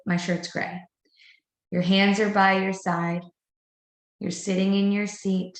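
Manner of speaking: calm, level, matter-of-fact statements; even tone. Shown as a demonstration. Director shows teachers how to talk to a child, even and calm. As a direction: state it like a plain fact, no scolding. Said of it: "So I have an even tone".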